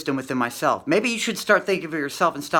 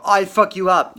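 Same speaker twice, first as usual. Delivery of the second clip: loud, higher mock threat; cussing out; 6 semitones higher, 8 dB louder, slower than usual. Imitating a viewer yelling at the video, mock shout. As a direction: ham up an angry viewer's yell. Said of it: "cussing out the video".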